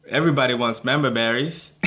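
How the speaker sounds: lightly attempted country accent; weird country accent. Reviewer imitating a cartoon farm guy, mild country accent. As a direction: have a half-hearted go at a country accent. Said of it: "a imitation of his voice".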